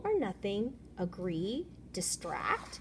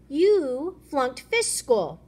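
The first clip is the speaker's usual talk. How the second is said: mock taunt; 4 semitones higher, 7 dB louder, much slower than usual. Taunting a fish.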